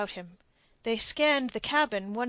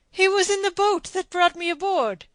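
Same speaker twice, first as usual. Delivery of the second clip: much higher and louder, urgent; pressing for news; anxious father; 10 semitones higher, 10 dB louder than usual. A narrator's reading. Don pleads about his son's boat, anxious. Diego's voice.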